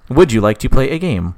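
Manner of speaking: lightly voiced eighties computer; a hint of eighties machine speech. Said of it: "like, an eighties voice".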